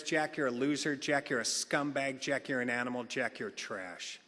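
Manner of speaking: imagined voice of contempt fading out; fading scorn. Retold or imitated. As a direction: let each insult sink heavier. Imagined insults, sinking.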